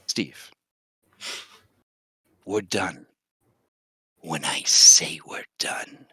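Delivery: very soft, low, slow breathy threat; menacing witch whisper. Acted. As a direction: chill him with a quiet warning. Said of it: "and she says".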